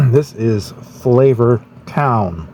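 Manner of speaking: slow, drawn-out catchphrase; Guy Fieri impression. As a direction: announce it like a TV food host. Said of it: "Guy on Food Network".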